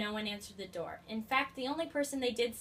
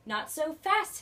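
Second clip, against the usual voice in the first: unpleasant hiss; 6 semitones higher, 6 dB louder, slower than usual. A narrator's reading. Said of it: "hissed an unpleasant voice".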